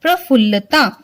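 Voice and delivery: प्रफुल्लता with र under प and a doubled ल, said clearly; careful spelling-out. Shown as a demonstration. Teacher showing the class how to say the word. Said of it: "यहाँ प के पैर में र और यहाँ फिर आधा ल और पूरा ल".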